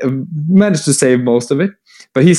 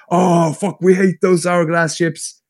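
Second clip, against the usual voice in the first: higher, drawn-out mock outrage; crazed orcs, imitated; 5 semitones higher, slower than usual. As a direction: grumble as a mob of hammed-up orcs. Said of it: "the orcs go crazy".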